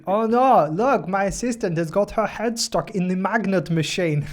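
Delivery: high, slow, hammed-up dismay; badly acted alarm, drawn out; mock porn acting. Mock porn scene, feigned alarm.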